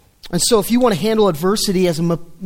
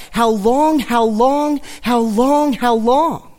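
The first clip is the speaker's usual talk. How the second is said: crying out; 3 semitones higher, slower than usual. Retold or imitated. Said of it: "four times David cries out".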